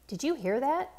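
high, startled question about a noise; alarmed child. A narrator's reading. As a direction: ask in sudden alarm. Child hears gunshots.

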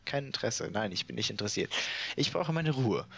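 hammed-up vainglorious knight announcing himself; boastful knight. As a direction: puff yourself up like a self-important knight and proclaim each word. Reads boastful knight's dialogue.

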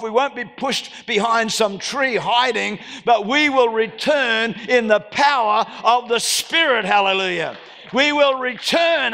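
rally the church, building triumph; preaching at full force. Acted. Preacher to the congregation, declaring the church's victory, rousing.

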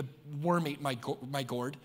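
a hint of a whining prophet; sulky Jonah. Jonah complaining to God about his plant, mild sulky grumble. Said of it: "Jonah's like".

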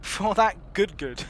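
put-on rough Hispanic boy voice; rough Hispanic accent. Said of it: "Rough Hispanic boy".

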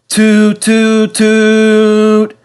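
high, loud hooting bellow; bellowing toot. A narrator's reading. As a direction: blast the toots out. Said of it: "bellowed Bertie".

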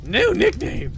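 high, excited burst; excited exclamation. Acted. Drunk girl announces a new nickname, excited exclamation. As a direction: pitch leaps up on it. Drunk game character calls out.

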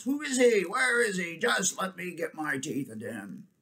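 high angry beast clamour; growling beasts. A narrator's reading. Beasts demanding to get at the impostor, growling. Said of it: "came the growls".

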